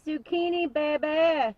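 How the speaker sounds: loud, high, gleeful shout; proudly crowing about the zucchini; excited. Real, not acted. Excited garden reveal.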